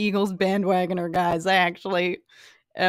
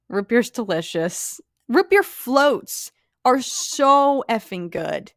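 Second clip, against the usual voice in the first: drawn-out rave; 3 semitones higher, slower than usual. Real, not acted. Raving about root beer floats.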